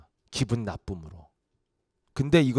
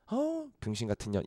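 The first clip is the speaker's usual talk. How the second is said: much softer, contemptuous mutter; muttered insult; 5 semitones lower, 14 dB quieter than usual. Retold or imitated. Bystander muttering an insult, softly scornful. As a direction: sneer under your breath.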